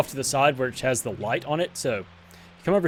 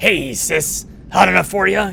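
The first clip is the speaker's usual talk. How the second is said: rough, heavy-smoker rasp, creaky and coughy; 4 semitones higher, 4 dB louder than usual. Voicing a villain greeting the heroine: deep smoker's-cough voice. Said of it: "a deep, like, smoker's cough".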